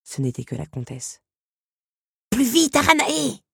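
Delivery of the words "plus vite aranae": high, loud hurrying cry; urgent encouragement, voice raised; urging on. A narrator's reading. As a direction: spur a partner to move faster. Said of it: "encouragea Lucanos".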